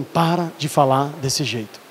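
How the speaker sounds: bronca de pai contida, baixa e lenta; pai repreendendo. Retold or imitated. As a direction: imitando de leve um pai severo, pausado e baixo. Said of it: "Eu lembro o jeito que ele falou". (bronca contida de pai, falada devagar)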